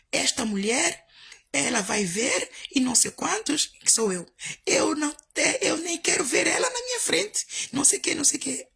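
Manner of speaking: a hint of an indignant caller; lightly voiced angry man; mock angry rant. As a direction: voice him ranting, rising high. Gero insulting her on phone.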